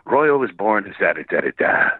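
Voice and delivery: low gravelly narrator impression; Alec Baldwin. Imitating a film intro narrator, gravelly low read. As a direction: drop to the gravelly bottom of the voice. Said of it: "he has that gravelly thing at the bottom".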